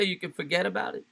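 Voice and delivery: put-on light New York accent, teasing echo; mock New York accent, questioning; imitating New York accent. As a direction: parrot the line with a hint of New York. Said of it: "did you just bring out the New York accent there".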